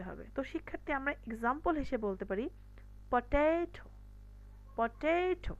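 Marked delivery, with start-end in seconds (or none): 3.1-3.8 পটেটো with TE lengthened and clear; stress on middle syllable. Shown as a demonstration. Teacher giving an example for students, stressed middle syllable. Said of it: "এখানে আমি stress দিচ্ছি". 4.8-5.5 পটেটো with a high, long TE; stress on middle syllable. Shown as a demonstration. Teacher repeating the example, stressed middle syllable. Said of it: "এখানে আমি stress দিচ্ছি".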